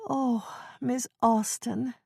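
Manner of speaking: put-on high, slow, worried elderly woman; Ethel's fretful old voice. Old neighbor fretting to Jane over tea, high and slow. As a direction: quaver it like a flustered old neighbor.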